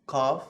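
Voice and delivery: throaty K in "qaf"; open-throated Q. Shown as a demonstration. Teacher repeating qaf after explaining it, throaty K. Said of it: "open your throat a little bit".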